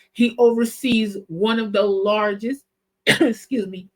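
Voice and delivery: clearing throat mid-sentence; speaking with a tickly cough; through a cough. Real, not acted. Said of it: "I got a cough now".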